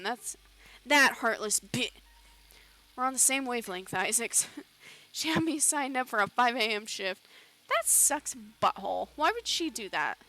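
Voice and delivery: loud, aggrieved character rant; worked-up complaint, settling toward the end; indignant miner. Acted. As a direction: gripe forcefully about the boss. Miners complain angrily about their boss.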